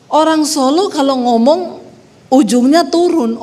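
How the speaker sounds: usual speaking voice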